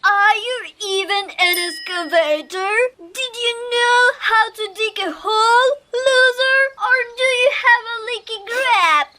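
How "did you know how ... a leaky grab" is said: tearful, voice wobbling with hurt; crying, hurt. Acted. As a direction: cry out the words, wounded. Upset excavator insulted, crying.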